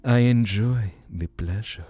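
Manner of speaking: put-on lightly accented vampire charm; a hammed-up Romanian seducer; hint of Romanian accent, rising on dessert; mock Romanian accent. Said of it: "stereotypical vampire".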